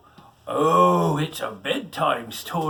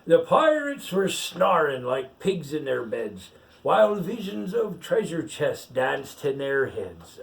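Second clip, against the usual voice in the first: pirate reading a picture book aloud; story reading; slower than usual. Acted. Pirate reads the rhyme to the child, storytelling lilt. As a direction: read the verse out like a bedtime tale.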